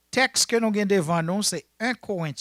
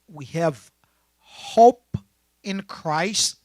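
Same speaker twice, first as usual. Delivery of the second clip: slow, word-by-word verse reading; emphatic swell, then falling away to the end; deliberate scripture reading; 2 semitones higher, 6 dB louder, slower than usual. Real, not acted. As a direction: read it in small pieces with weighty pauses. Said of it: "Let me read it one more time".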